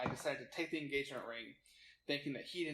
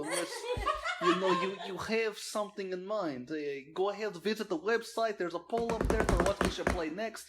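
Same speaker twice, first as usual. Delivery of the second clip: professional white voice; 6 semitones higher, 8 dB louder than usual. Pretend. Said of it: "professional white voice".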